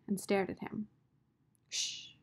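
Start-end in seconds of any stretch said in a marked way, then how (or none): 1.7-2.1 shushing. A narrator's reading. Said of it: "said Rob".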